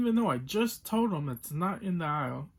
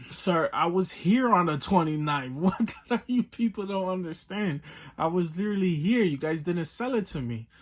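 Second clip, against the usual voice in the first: exasperated retold complaint; 4 semitones higher, 5 dB louder than usual. Angry retold argument with clerk.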